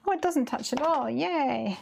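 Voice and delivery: a delighted, lilting "oh" into a yay; pleased surprise. Real, not acted. Crafter sees the stamp clears the text, pleasantly surprised.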